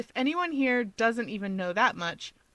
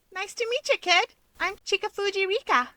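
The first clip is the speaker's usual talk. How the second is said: higher, bright friendly greeting; friendly young woman; 12 semitones higher, 3 dB louder than usual. A narrator's reading. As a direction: greet the kid warmly. Rika voiced as a character.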